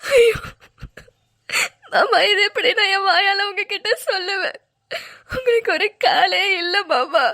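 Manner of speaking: choked, slow tearful plea. Acted. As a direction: speak through tears, barely holding together. Wife hides lost leg, weeping.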